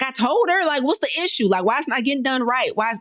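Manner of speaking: high, exasperated venting at the assistant; a high-pitched, fed-up why isn't this done; exasperated past self. Retold or imitated. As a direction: replay your old frustrated self. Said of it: "I used to be like".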